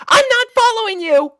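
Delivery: high, loud defensive blurt; sudden yammer. Acted. Flustered girl blurting a denial to her crush, loud and high. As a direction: blurt it out in a panic. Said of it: "Sweetie suddenly yammered".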